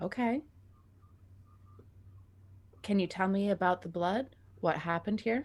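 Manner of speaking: very calm, slow, unhurried delivery. In character, questioning a panicked person about the blood to stall for time, very calm and slow. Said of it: "I'm speaking very calmly, very slowly".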